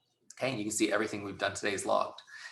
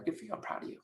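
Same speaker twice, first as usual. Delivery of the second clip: proud of you; 11 semitones higher, 9 dB quieter, faster than usual. Retold or imitated.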